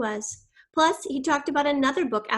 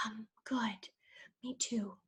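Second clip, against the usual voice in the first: very soft, hesitant whisper; cautious whisper; 12 dB quieter, slower than usual. A narrator's reading. Jason answers Alec's apology in a cautious whisper. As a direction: barely voice it, cautiously. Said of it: "smiled cautiously and whispered".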